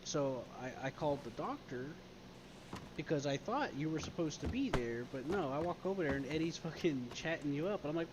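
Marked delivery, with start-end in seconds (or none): none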